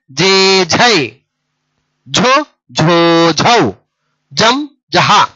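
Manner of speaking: measured, spaced syllables, long vowels held level; short sound, then a drawn-out one; syllable drill recitation. Shown as a demonstration. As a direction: recite each pair for learners to echo. Leads a repeat-after-me syllable drill.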